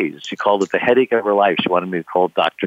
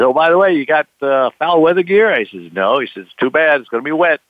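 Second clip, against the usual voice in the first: a hint of a weathered sailor's warning; lightly voiced old captain; 6 semitones higher than usual. Old captain warning the young skipper, mock grim.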